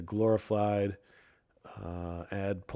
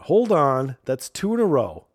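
much louder, sharp and higher; sudden outburst; 5 semitones higher, 9 dB louder than usual. Real, not acted. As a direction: cut in, catching the cliché. Catching repeated cliché in text.

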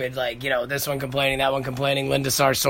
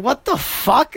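much higher, incredulous what the fuck; mock baffled; 10 semitones higher, slower than usual. Watching Brenda take a shot of taco meat, high incredulous reaction. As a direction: react like you saw something absurd.

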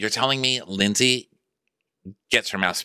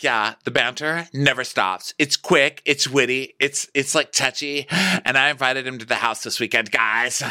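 put-on gushing girlfriend; 7 semitones higher than usual. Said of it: "So she's like".

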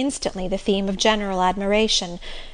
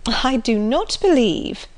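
good-humoured; 3 semitones higher, slower than usual. Acted. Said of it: "with a good-humoured smile".

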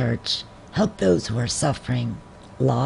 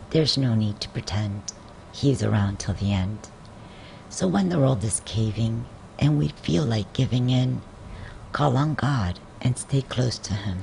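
measured, lower devotional verse reading; poem reading; 4 semitones lower, 5 dB quieter than usual. Acted. Reading a devotional poem to listeners, measured poem reading. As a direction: recite the rhyme gently, line by line.

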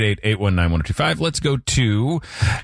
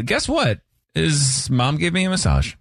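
slow creepy lowered voice; 4 semitones lower than usual. Pretend. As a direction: lean into the creepy. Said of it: "Why do you sound so creepy".

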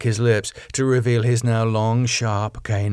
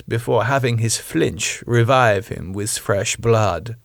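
put-on lilting German-accented vampire lady, slightly raised; German-accented Rose, patient; 2 semitones higher than usual. Rose explaining the death sleep to Damo, patient German accent.

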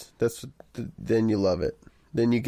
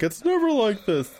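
mock local complaint; 11 semitones higher than usual. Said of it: "Everyone's like".

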